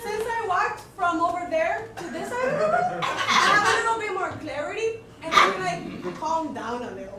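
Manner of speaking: mock Hispanic accent. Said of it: "speak with a certain accent".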